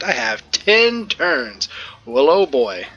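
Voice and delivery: surprised. Real, not acted. Reacting to locked exit timer.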